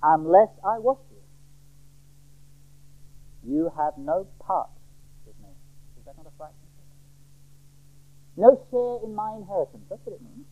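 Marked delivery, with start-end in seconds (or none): 0.0-5.5 measured, slowing warning; uncompromising warning. Acted. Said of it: "is an uncompromising warning". 8.3-9.8 raised-pitch firm warning; emphatic pronouncement of exclusion; uncompromising warning. Acted. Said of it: "is an uncompromising warning".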